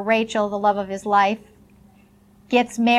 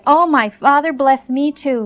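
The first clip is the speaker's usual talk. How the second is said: louder, higher mock cry of anguish; bitter begging cry; 4 semitones higher, 7 dB louder than usual. A narrator's reading. Cheated son begs his father's blessing, crying out bitterly. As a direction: beg with a mild, read-aloud cry. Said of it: "he let out a loud and bitter cry".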